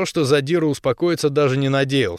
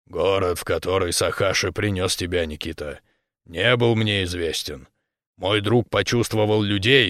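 calm bear elder; 3 semitones lower than usual. Acted.

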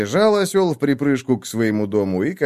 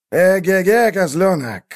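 loud, high hunting call; shouting; 8 semitones higher, 4 dB louder than usual. A narrator's reading. Wolf spots the kid goat, shouting. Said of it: "крикнул волк".

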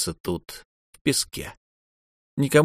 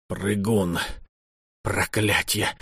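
wistful; 5 dB quieter, slower than usual. A narrator's reading. Khalitu mourning the bite, wistfully. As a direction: say it with hopeless longing. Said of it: "тоскливо сказал Халиту".

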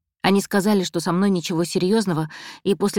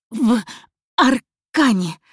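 strangled, slow, forced out louder; choked voice; 5 semitones higher, 4 dB louder, much slower than usual. Acted. Woman held by the throat, answering in a choked cry. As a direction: squeeze the words out through a gripped throat. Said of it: "ответила я сдавленным голосом".

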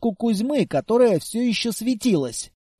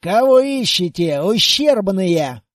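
blunt and louder, slow contempt; rude; 2 semitones lower, 4 dB louder than usual. Acted. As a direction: sneer the insult slowly. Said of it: "и грубо, без предисловий, поинтересовался".

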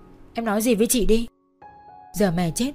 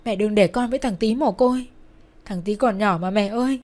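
raised, urgent pleading; frantic begging; 4 semitones higher, 3 dB louder than usual. A narrator's reading. Daughter clinging to dying mother's bed, begging. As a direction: beg desperately, plea upon plea. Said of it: "van xin rối rít".

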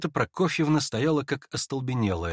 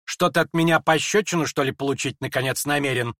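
threatening; 2 semitones higher than usual. Acted. Lizaveta threatens a slap.

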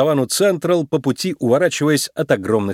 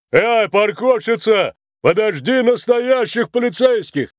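slow, high mocking call after her; a big cop yelling dismissively; scornful officer calling after the rookie; Макрок shouting; 8 semitones higher, slower than usual. A narrator's reading. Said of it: "крикнул ей вслед Макрок".

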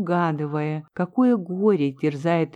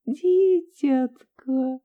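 put-on slow, higher sigh of an old woman; sighing tenderly; 7 semitones higher, much slower than usual. A narrator's reading. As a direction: breathe the word with pity. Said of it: "тихо вздыхая".

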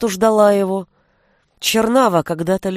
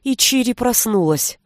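ordinary delivery

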